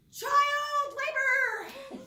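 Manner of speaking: loud, slow, drawn-out protest; mock outraged cry. Kids protesting the dishes chore, loud and drawn-out. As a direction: wail it like a put-upon kid.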